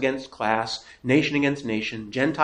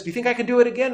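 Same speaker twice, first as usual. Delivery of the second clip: tightrope walker asking; 9 semitones higher, much faster than usual. Retold or imitated. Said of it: "and he says".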